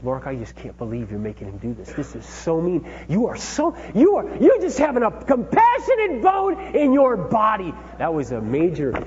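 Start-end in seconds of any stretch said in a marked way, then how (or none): 0.0-2.9 much softer, hurt and teary; tearful plea. Retold or imitated. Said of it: "She starts crying". 3.1-7.7 much higher and louder, voice breaking with tears; crying outburst. Retold or imitated. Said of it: "She starts crying".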